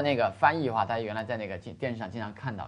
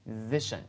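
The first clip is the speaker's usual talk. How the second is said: "Position" with a light first syllable and a stressed "si"; stress on second syllable; 6 dB quieter than usual. Shown as a demonstration. Teacher repeats the word to point out its stress on "si" in "Position". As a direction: put the weight on "si" in "Position". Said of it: "注意一下重音在S那个地方".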